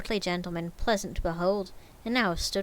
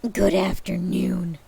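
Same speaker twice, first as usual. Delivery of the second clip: curt dismissal; 6 dB louder, slower than usual. Acted. Scrooge dismissing nephew.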